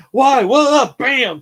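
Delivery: high, loud startled cries; bewildered yelling. Retold or imitated. Man retells being sent flying in jail, in high bewildered yells. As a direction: yelp it out, then slam the last word. Acts out confused crash out of the cell.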